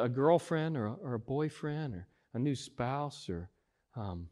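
a quiet imitation of a smug churchgoer; mock inner voice. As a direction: mutter like someone pleased with their reflection. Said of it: "and we go".

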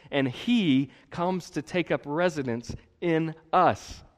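normal talking voice

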